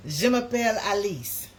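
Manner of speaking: proud schoolbook French. Shown as a demonstration. To viewers, recalling her French class name, a showy French line. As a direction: announce your classroom French name with flair. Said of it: "my name in my French class was Alice".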